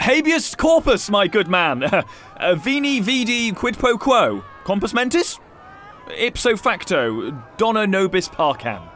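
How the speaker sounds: fake foreign language. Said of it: "I speak a bit of Latin".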